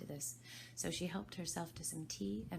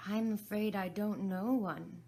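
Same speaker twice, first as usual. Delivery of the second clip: alarmed; 5 semitones higher, 8 dB louder than usual. Acted. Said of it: "rather alarmed at the proposal".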